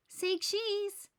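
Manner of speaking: high, playful "Say cheese"; pretend photographer. A narrator's reading. Franklin pretending to be a photographer, playful. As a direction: play the photographer posing a shot. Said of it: "He imagined he was a photographer".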